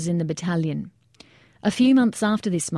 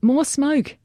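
high-pitched shouted order; urgent yell; 8 semitones higher, 3 dB louder than usual. A narrator's reading. Soldier calling for cover for the exposed men, high yell. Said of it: "Jager yelled".

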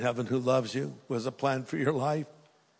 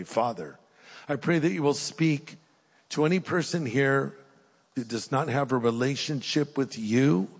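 prayer. Acted. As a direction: pray gently over the room. Leads a closing prayer.

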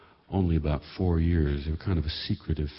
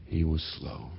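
soft echo; 5 dB quieter than usual. Shown as a demonstration. Narrator echoing the children's label, softly and ruefully. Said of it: "as we said at the time".

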